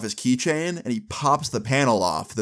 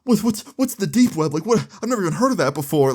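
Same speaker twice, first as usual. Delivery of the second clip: high, stammering crying mom; imitating a hysterically crying mother; mock tearful wail; 8 semitones higher, 4 dB louder, faster than usual. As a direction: wail it in bewilderment, pitched way up. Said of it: "She keeps crying".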